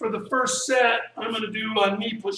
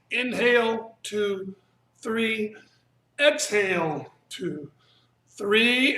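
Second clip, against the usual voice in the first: breath cueing demo; slower than usual. Shown as a demonstration. Teacher cueing students through breath counts, calm and steady. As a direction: call out each breath in a slow, even count. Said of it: "here's what I mean".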